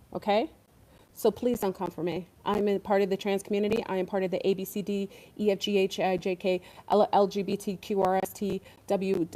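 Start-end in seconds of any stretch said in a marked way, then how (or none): 3.9-9.3 mock rattled-off list. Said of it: "This is a comedy skit".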